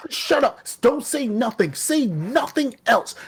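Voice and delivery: mock yell. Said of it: "I'm screaming".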